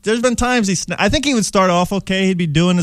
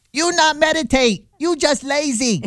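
put-on higher, slow Asian mother accent, scolding; funny Asian mother accent; 8 semitones higher, slower than usual. Comic imitating his mother scolding him, in Asian mother accent. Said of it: "that funny mother accent".

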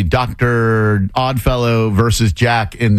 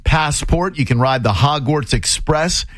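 radio announcer voice. Pretend. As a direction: read it like a radio DJ. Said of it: "don't know why I'm talking like a radio guy".

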